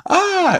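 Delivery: short high-pitched gasped "ah"; imitated gasp and scream; gasping mock scream. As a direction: let out a brief startled squeal. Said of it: "gasps and screams".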